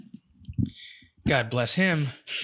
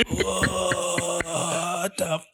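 shocked disbelief; 5 semitones higher, much slower than usual. Retold or imitated. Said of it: "in shock".

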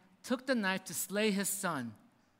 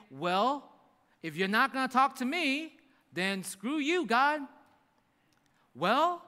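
higher, dismissive rant at God; bitter defiance; 6 semitones higher than usual. Retold or imitated. A hurt believer telling God off: higher, dismissive rant. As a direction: snap back like a sulking believer.

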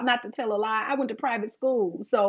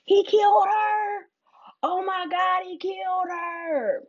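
shocked news reaction; 8 semitones higher, slower than usual. Retold or imitated. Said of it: "You're like".

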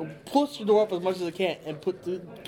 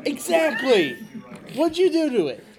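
loud, high indignant demand; furious neighbor confronting; old couple teasing; 9 semitones higher, 5 dB louder than usual. Acted. Neighbor quarrel in character.

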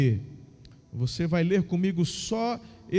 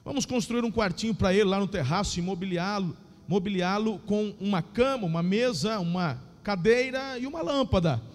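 lively Bible reading, raised pitch; story narration; 3 semitones higher than usual. Acted. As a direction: read the story with feeling.

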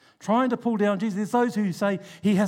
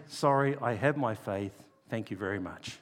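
soft polite refusal; 9 semitones lower, 6 dB quieter than usual. Pretend. Advised polite doorstep reply.

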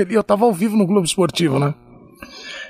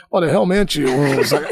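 imitated intonation switch; 6 semitones lower than usual. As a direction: lower mock answering voice. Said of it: "ele mudava a entonação".

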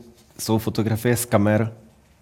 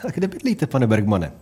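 receptionist role-play. Acted. Co-host plays receptionist asking guest for address, lightly acted polite question. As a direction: ask it like a hotel clerk checking someone in.

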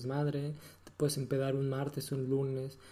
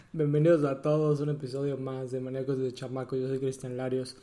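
loud host intro, fast at the end; radio host intro; 5 dB louder than usual. Acted. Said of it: "improvisando unos nuevos intros".

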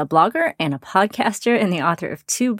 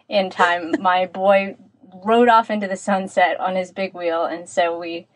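tin can sound. Real, not acted. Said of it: "so it sounds a bit like I'm in a tin can".

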